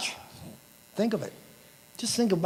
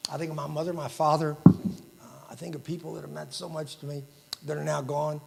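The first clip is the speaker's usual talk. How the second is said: quieter, holding back real emotion; getting emotional; 4 dB quieter than usual. Real, not acted. Speaker at the awards dinner remembering lost loved ones, quietly emotional. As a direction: let the voice sink as the memories hit. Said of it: "I get somewhat emotional".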